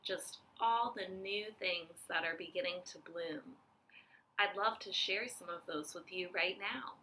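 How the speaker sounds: hushed whisper, almost no voice. Real, not acted. Teacher whispering to children about spring blooms. Soft nature intro to viewers.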